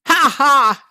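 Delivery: loud, high victory cackle; triumphant laugh. Real, not acted. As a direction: crow with delight at the win. Triumph after finally climbing up.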